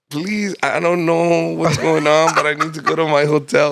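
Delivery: mildly desperate retold appeal; retold plea. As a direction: act out begging for help. Retelling begging strangers for a ride.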